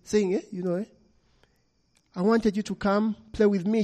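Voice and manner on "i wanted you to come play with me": put-on little girl. A narrator's reading. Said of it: "she said".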